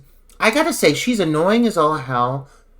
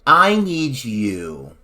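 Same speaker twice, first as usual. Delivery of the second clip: slow, low, coaxing director voice; a hint of a sleazy director, slow and low; lightly voiced director; 4 semitones lower, slower than usual. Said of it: "was like".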